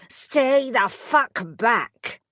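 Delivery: slow desperate shouted warning; panicked yell. A narrator's reading. Prisoner shouting at the fairy godmother's monster. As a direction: yell it, terrified. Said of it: "he yelled".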